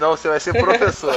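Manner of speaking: quick bossy order, laughing; a touch of drill sergeant; stern general father. Retold or imitated. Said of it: "isso é tipo um general". (pai autoritário de general)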